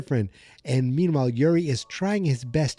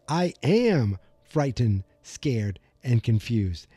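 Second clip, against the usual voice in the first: retold reluctant parroting; slower than usual. Joyce parrots the coached words back.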